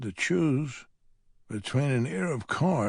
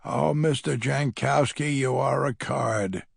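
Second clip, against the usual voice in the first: flat; 2 semitones higher than usual. Acted. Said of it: "the nurse says flatly".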